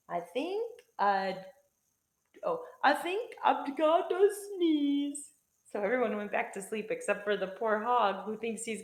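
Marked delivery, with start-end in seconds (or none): 0.1-5.3 stuffed-up, halting hog; garbled wheeze. A narrator's reading. Hog about to sneeze, garbled wheeze. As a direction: speak haltingly as if a sneeze is building. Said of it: "No one heard his garbled wheeze".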